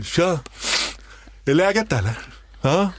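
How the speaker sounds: laid-back slacker greeting; lightly voiced nineties Stockholm hipster; Stockholm trendy dude. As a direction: drift it out like a bored trendy guy at the subway. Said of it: "Som en sån där snubbe".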